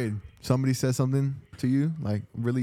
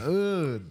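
higher drawn-out groan of disgust; cringing groan; 6 semitones higher than usual. Real, not acted. Friend hearing outdated slang, cringing groan. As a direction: groan at the lame phrase. Groans at chill pill phrase.

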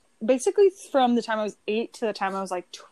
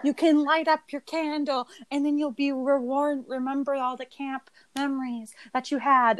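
higher, sweet inspirational camp speech; lightly voiced earnest camp director; 4 semitones higher than usual. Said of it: "speech done by the camp director".

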